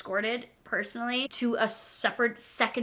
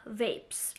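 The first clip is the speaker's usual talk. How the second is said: weary officer sigh; 10 dB quieter than usual. Retold or imitated. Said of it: "all she did was go".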